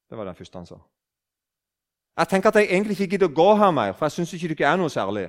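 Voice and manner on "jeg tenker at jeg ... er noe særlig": loud confession. Retold or imitated. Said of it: "snakket han kjempehøyt".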